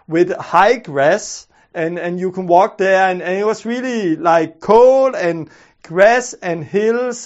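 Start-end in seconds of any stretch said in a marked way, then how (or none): none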